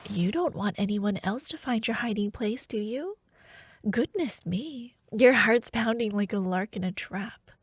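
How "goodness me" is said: whisper. Acted. Hiding, pressed close, whispering.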